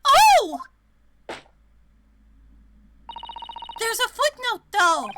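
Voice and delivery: sudden excited discovery; surprised. Real, not acted. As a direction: blurt it out with surprise.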